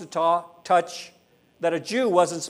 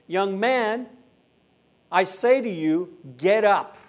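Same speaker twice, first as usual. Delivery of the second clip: mildly raised command, higher and firm; 4 semitones higher, 4 dB louder, slower than usual. Acted. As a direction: call the young man up with authority. Jesus commanding the dead man.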